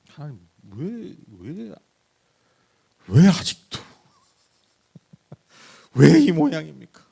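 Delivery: whiny, rising complaint that bursts into a loud, high yell; annoyed complaint. Retold or imitated. Preacher mimicking himself snapping at God. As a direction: fret at God, then blow up. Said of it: "가끔 막 짜증내요".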